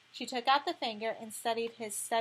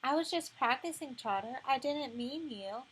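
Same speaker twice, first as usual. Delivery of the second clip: put-on apologetic child voice; 3 semitones higher than usual. Boy apologizing to Trotter.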